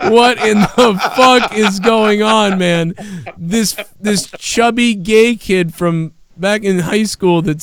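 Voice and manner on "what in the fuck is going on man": slow, drawn-out disbelieving question; stunned disbelief. Retold or imitated. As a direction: let the shock stretch every word. Retelling the shocking message.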